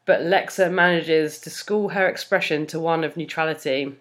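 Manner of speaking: measured fan fiction reading; story narration. A narrator's reading. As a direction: read it out like an audiobook narrator. Reads fan fiction aloud.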